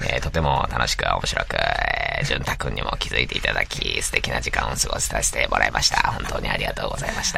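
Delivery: creaky low vocal fry reading. Acted. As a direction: drag every phrase into vocal fry. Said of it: "エッジボイスがすごいね".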